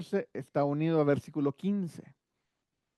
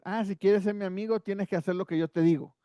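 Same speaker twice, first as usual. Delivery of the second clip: mock bully; 2 semitones higher, faster than usual. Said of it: "de esos bullies que dices".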